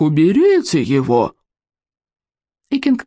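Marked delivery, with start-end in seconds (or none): 0.0-1.3 gruff bellow; roaring berserk. A narrator's reading. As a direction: shout him down like a warlord. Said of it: "взревел берсерк".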